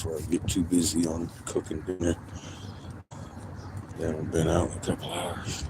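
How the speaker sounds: soft unvoiced whisper; whispered aside, barely breathed. Real, not acted. Whispering to herself about the dogs needing a walk.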